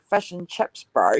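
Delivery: imitated Māori New Zealand accent. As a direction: put on a South Auckland Māori accent. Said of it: "Māori, Māoris have different accents from us".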